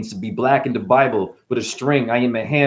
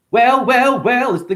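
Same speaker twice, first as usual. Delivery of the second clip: excited; 11 semitones higher, 4 dB louder than usual. Acted. Rising wordplay exclamation.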